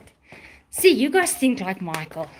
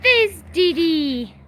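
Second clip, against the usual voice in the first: high, slow doting; 3 semitones higher than usual. Real, not acted. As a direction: coo to the dogs. Greeting the dogs fondly.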